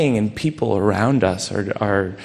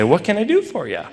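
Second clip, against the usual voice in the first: higher, fast customer-service chirp; polite but distant, like a shop clerk; cheery business voice; 7 semitones higher, faster than usual. Retold or imitated. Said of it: "her business voice ... cheery, professional, and distant".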